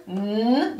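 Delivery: a lone held "n"; phonics-style "n"; isolated letter sound. Shown as a demonstration. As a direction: hum out just the "n" sound. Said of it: "blend the syllables together".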